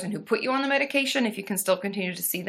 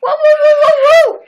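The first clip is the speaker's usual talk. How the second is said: very loud high playful monkey hoots; 14 dB louder than usual. Pretend. Celebrating a donor on stream with loud monkey hoots. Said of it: "his monkey noises".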